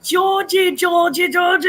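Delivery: high, loud sing-song calling of Georgie; excited calling out. Real, not acted. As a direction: call out to a friend with delight. Greeting a viewer by name.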